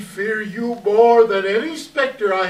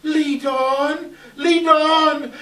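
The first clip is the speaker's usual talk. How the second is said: urgent command; 5 semitones higher, slower than usual. Acted. Scrooge urges the silent spirit.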